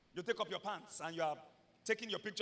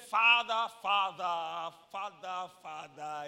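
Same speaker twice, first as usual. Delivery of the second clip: mock pleading; 7 dB louder, much slower than usual. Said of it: "And he said".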